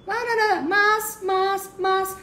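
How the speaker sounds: very high, loud mock objections; shrieky caricature of protesting; mocking whine. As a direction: squeal the buts like a whining pest. Mocks the pest's endless objections.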